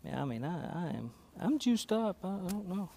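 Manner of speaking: faint voice, mic cutting out; livestream audio. Real, not acted. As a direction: talk through a dead mic. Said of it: "I just don't hear me".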